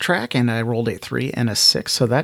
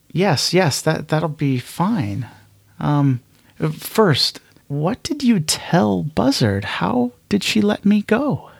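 put-on higher, hesitant young woman, flustered; a nervous higher voice, tripping over her words; Echo's voice; 6 semitones higher than usual. Echo, unsettled by Hawking, asks higher-pitched and urgent.

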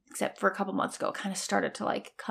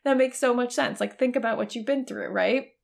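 tender self-comfort; 3 semitones higher than usual. Retold or imitated. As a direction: comfort yourself like hugging a scared friend. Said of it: "wanted to love on myself and hug myself".

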